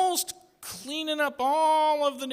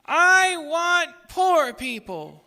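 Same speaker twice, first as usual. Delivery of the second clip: put-on baby America voice; 5 semitones higher, slower than usual.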